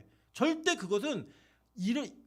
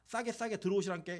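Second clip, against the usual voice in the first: Jeolla dialect. Pretend. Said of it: "우리끼리만 아는 이런 걸".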